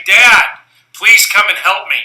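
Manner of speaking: put-on high, loud child's call from upstairs; a little girl calling out for her dad; calling for help.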